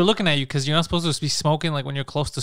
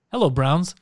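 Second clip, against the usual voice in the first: mocking voice; 4 dB louder than usual. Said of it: "He's like".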